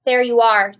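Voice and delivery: loud vindicated cry; triumphant cry. A narrator's reading. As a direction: cry out, proven right. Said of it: "cried the chief of police".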